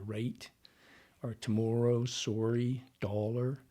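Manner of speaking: "tomorrow, sorry, dollar" with rounded Canadian vowels; Canadian vowel sounds. Shown as a demonstration. Dialect coach listing key giveaway words, Canadian sounds. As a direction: say "sorry" as "sore-ee", Canadian style. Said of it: "those kind of sounds".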